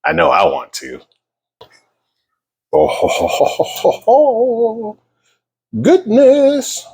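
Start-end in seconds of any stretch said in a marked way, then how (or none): 2.7-5.0 chuckling. Real, not acted. Delighted at the finished pie. 5.8-6.9 high amazed. Real, not acted. Pie just out of oven.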